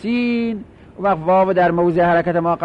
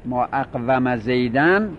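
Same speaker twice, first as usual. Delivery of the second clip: drawn out; 5 semitones lower, slower than usual. Shown as a demonstration. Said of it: "میگید".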